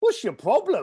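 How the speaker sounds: mock sarcastic tone in a British manner. Retelling what the speaker said to a man who bought a ticket, retelling british sarcasm. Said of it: "I was being British sarcastic with my next line".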